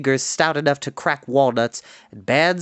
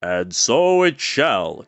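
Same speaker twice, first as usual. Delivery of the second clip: booming lord; 4 semitones lower, much slower than usual. Acted. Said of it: "loudly cried".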